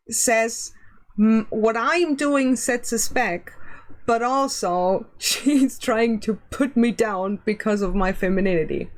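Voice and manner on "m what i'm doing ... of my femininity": mocking, dismissive quote; sarcastic reading. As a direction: read it with a sneer. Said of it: "I'm sorry, that doesn't sound like".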